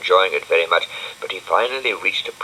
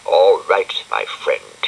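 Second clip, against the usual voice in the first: grimly; 4 dB louder, slower than usual. Acted. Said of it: "he said grimly".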